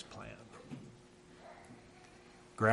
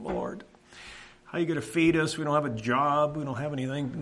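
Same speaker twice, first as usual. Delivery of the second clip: crying out to God; 4 semitones higher than usual. Retold or imitated. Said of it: "crying out to the Lord".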